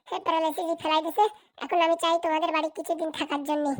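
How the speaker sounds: normal talking voice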